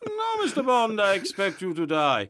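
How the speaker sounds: hammed-up villain, starting high; amateur Scottish-tinged master villain; Goldfinger. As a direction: gloat theatrically at the trapped spy. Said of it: "Goldfinger says in reply".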